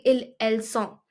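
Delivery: "ils, elles sont" with the S sounded only starting "sont"; S pronounced in sont. Shown as a demonstration. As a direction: silent plural endings, clear S opening "sont". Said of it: "Over here, we do".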